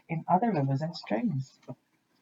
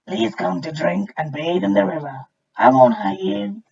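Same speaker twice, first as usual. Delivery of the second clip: friendly crocodile; 3 semitones higher, 7 dB louder than usual. A narrator's reading. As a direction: boom a welcome like a reformed crocodile. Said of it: "he said".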